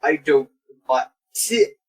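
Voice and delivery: halting, stuttering delivery. Acted. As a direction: stumble over every word. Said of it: "Without any actual stuttering".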